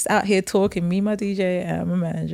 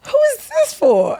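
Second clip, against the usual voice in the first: puzzled. Retold or imitated. Puzzled self-quote at the Winnebago.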